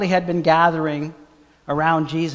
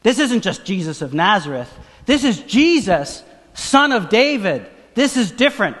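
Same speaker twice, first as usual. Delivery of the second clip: acted beggar's call, rising higher and louder; 5 semitones higher, 4 dB louder than usual. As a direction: insist over a crowd, building. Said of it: "calling out and saying".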